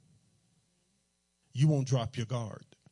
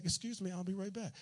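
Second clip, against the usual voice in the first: much softer, calm "Excuse me, I'll be right back"; polite quiet excuse; 5 semitones higher, 10 dB quieter than usual. Retold or imitated. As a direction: slip out of the room politely, voice down. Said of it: "And he said".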